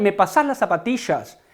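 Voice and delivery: Rioplatense demo, "zapatillas" with sh for ll; Argentine-style "pasás", "zapatillas" with a sh sound; Rioplatense accent. Shown as a demonstration. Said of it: "Ellos dirían". (ejemplo rioplatense, "zapatillas" con sh)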